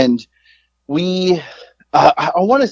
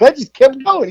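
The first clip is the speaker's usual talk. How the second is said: sheepish retold reply; 10 semitones higher than usual. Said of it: "I was like".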